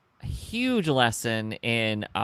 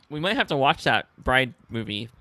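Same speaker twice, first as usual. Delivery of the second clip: talking through hiccups; speech broken by hiccups. Real, not acted. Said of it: "I cannot stop hiccuping".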